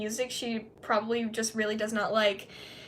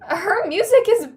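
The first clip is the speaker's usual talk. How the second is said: louder, slow blunt verdict; emphatic; 5 semitones higher, 8 dB louder, slower than usual. Real, not acted. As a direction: lay it down hard.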